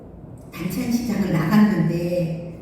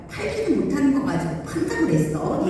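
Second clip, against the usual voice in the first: mild retold indignation, pitched up; huffy anger; 5 semitones higher than usual. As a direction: mimic someone huffing an angry accusation. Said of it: "화가 나가지고 막 씩씩대면서". (씩씩대며 따지는 흉내)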